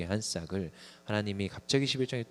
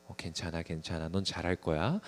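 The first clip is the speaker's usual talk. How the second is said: mock comforting; 3 semitones lower than usual. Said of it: "칭찬을 하고 막 격려를 하고".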